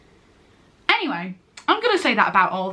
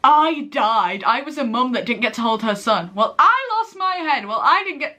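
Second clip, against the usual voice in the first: hammed-up bickering retort; Casey; 2 semitones higher than usual. Imitating an actress bickering with a rival queen, emphatic retort. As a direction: argue back with big swoops on each "I". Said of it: "the Casey was just like".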